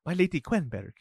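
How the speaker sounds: a hint of a fussy, formal steward, a bit fast; bowing and apologizing in a lightly put-on voice; lightly voiced steward. Steward greets the lady at the estate, lightly voiced and apologetic.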